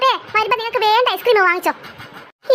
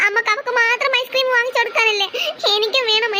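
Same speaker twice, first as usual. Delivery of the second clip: put-on crying child. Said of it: "ഇജ്ജെന്തിനാ ഇവിടെ കരയണത്?".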